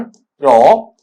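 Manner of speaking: "प्रो" alone as a separate syllable; syllable demonstration. Shown as a demonstration. Teacher splitting the word for students, "प्रो" on its own, syllable demonstration. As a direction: sound out "प्रो" by itself. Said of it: "ऐसा पढ़ेंगे इसका उच्चारण".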